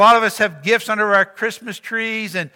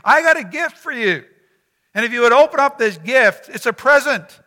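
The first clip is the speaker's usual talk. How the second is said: voicing Jesus; 4 semitones higher, 5 dB louder than usual. Preacher voicing Jesus offering gift.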